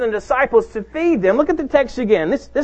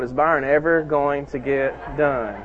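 mock impatient congregation; 8 semitones lower, 4 dB quieter than usual. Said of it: "You can refrain from your next thought".

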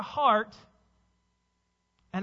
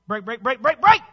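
alarmed wife; 12 dB louder than usual. Retold or imitated. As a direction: escalate each word into a loud backseat-driver cry. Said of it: "my wife will say".

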